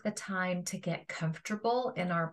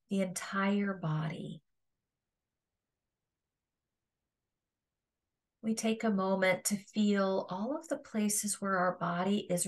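calm meditation guide with long pauses; guided meditation. Acted. Yoga teacher guiding listeners to feel their resting body, guided meditation. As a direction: guide them through a body scan, leaving space between phrases.

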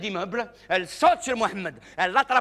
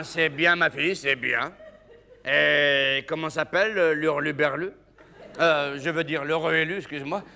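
father; 4 semitones lower than usual. Acted. Father replying to his daughter, lower and bemused. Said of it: "Eh ben".

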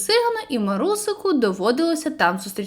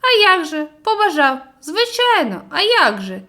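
sly smile; 5 semitones higher, 4 dB louder than usual. Acted. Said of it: "лукаво всміхнувся".

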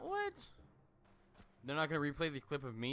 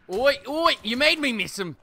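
frustrated yelling; 2 semitones higher, 15 dB louder, slower than usual. Real, not acted. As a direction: blast it out at the enemy. Furious at missing shot.

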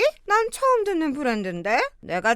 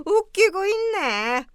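1 scornful laugh; 4 semitones higher, slower than usual. Acted. Mother-in-law scorns apology demand.

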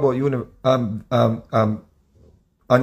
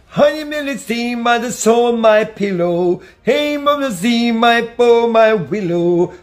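much higher, slow crooning reggae-singer voice; impression of a reggae singer; 8 semitones higher, much slower than usual. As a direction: stretch each word like a smooth lover-man. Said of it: "But when he come in, you never say".

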